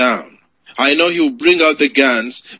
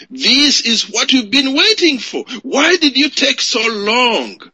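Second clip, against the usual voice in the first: raised, higher indignant reproach, slowed on the questions; angry villagers' complaint; 5 semitones higher than usual. Retold or imitated. Karamoja villagers confronting the speaker's people, indignant and higher. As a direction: voice the Karamoja people scolding the late mobilizers. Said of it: "but they asked them".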